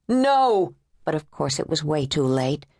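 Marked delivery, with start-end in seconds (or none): 0.1-0.7 sharp high yell of No; agent's desperate shout at the sniper. A narrator's reading. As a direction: shout it out too late. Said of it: "Savage yelled".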